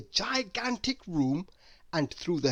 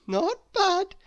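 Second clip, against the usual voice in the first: laughing; 5 dB louder than usual. A narrator's reading. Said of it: "she laughed".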